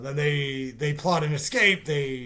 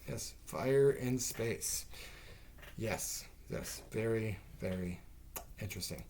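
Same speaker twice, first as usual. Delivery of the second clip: slow, dry sarcasm fading to a murmur; sarcastic; 3 semitones lower, 9 dB quieter than usual. Real, not acted. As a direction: drawl it out, unimpressed. Sarcastic remark on fire.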